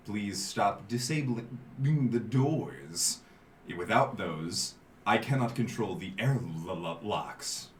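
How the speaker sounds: slow, even robot voice. Acted. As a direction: speak like a slow glitching AI. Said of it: "the robotic voice once again".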